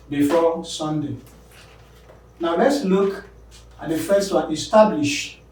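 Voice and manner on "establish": establish with the middle syllable stressed: es-TAB-lish; teacher modelling es-TAB-lish. Shown as a demonstration. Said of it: "Establish the middle".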